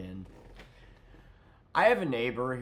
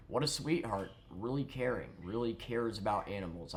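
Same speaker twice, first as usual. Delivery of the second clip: sarcastic praise. Real, not acted.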